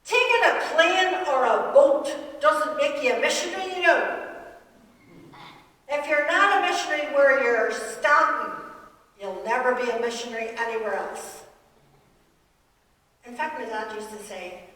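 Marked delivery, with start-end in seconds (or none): 0.0-11.4 put-on her dad's broad Belfast accent, louder and emphatic. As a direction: preach it like a Belfast father, louder. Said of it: "his broad Belfast accent".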